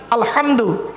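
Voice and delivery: "আলহামদু" with h from inside the throat; throaty h. Shown as a demonstration. Preacher isolating the letter for listeners, throaty h. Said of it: "গলার ভেতর থেকে হে এটা উচ্চারণ করবেন".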